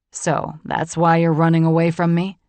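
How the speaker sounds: a hint of a stung, angry man; pissed John. A narrator's reading. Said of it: "He was clearly pissed".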